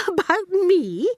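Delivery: high, loud, drawn-out astonishment; surprised cry. A narrator's reading. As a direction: exclaim it in rising disbelief. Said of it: "Miss Honey cried".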